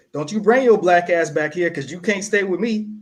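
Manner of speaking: lightly voiced mom, brushing him off; a hint of a mother refusing him; mock mom voice. Son retells mom refusing to take him back, lightly voiced mock mom. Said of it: "what she's telling me is".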